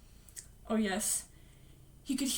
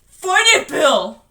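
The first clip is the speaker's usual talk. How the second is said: high, loud urging yell; urgent shout; 4 semitones higher, 13 dB louder, slower than usual. Acted. Richie urging Bill to fight, shouting. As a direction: shout to rouse a friend. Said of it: "Richie shouted".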